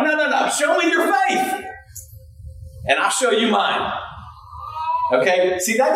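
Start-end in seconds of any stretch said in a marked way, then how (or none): 0.0-3.9 lightly voiced James. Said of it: "he's like".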